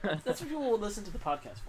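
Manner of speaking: excited. Real, not acted. Excited praise of the noise.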